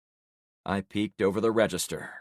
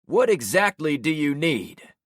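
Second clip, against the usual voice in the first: Javon's voice; 7 semitones higher, 6 dB louder than usual. Acted. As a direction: catch him out in the lie. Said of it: "Javon pressed".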